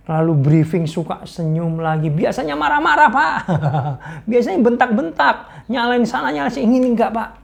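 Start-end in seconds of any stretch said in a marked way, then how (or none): 2.1-7.3 higher, telling the tale through laughter; laughing report. Retold or imitated. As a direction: giggle while gossiping about the boss. Aide telling about boss, laughing. (ajudan bercerita sambil tertawa)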